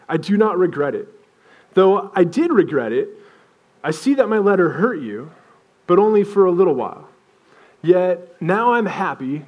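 measured reading with pauses between phrases; scripture reading. Acted. Preacher reading Paul's letter to the church, in a measured reading style. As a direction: read the passage out deliberately, phrase by phrase.

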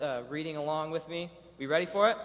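ordinary delivery

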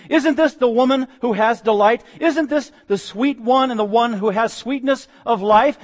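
high, lingering astonishment; wondering women. Acted. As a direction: call it out in amazed disbelief. Women calling Naomi publicly.

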